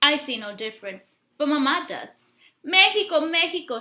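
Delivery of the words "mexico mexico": joyful greeting. Acted. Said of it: "she blows kisses at the sun-filled winter sky".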